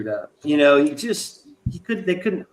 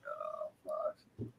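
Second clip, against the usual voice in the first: breathy whispered dismay; whispered curse; 23 dB quieter than usual. Retold or imitated. Imagining kicking cigarettes, a whispered defeated curse. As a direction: mutter it under your breath. Imagined despair, quitting smoking.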